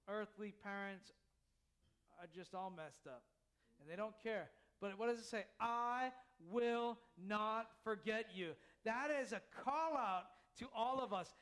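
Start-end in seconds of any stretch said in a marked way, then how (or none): 5.6-8.5 slow tender promise. Acted. Repeats God's promise slowly.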